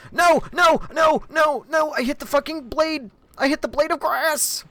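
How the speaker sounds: high, loud panicked yelling; screaming no. Real, not acted. Streamer hitting the wrong blade in game, shrieking. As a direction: howl in dismay at the miss. Game character getting killed.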